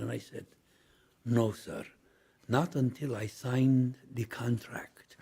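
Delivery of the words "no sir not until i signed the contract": slow, breathy whisper of a firm no; slow hushed refusal. Retold or imitated. Actor refusing the producer, in a slow hushed whisper. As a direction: hush it out slowly, holding the act.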